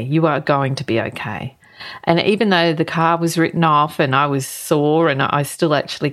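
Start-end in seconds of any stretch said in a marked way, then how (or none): 0.0-1.6 lower, measured reassurance, spelling out "You are"; firmer comforting repeat. Retold or imitated. Inner voice repeats itself to shaken driver, calmly reassuring. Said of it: "the voice within me comforted me".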